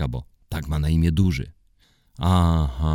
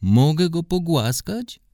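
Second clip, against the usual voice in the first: put-on very high, slow child's plea; high little girl asking to pet the dog; pleading little girl; 13 semitones higher than usual. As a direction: beg sweetly like a small girl. Mela asks to pet dog.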